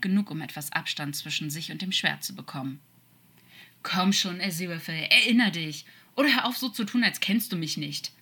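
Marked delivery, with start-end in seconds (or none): 3.8-8.1 frustrated, insistent coaxing; urgent pleading. Acted. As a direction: beg him to remember, pushing the voice up. Demon urges angel to remember.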